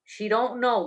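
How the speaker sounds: dry sarcastic jab; mock her with a sneer. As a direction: bartender mocking the drunk customer. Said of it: "Lou says sarcastically".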